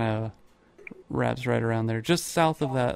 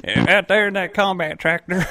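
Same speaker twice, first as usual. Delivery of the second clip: high, loud laughing line; 6 semitones higher, 7 dB louder than usual. Real, not acted. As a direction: laugh through the joke. Joke on misspeak.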